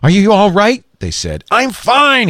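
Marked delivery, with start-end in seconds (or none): 0.0-0.8 worried call. A narrator's reading. Investors worried on tablet. 1.5-2.3 urgent. A narrator's reading. Lee Daniel answering, gassed.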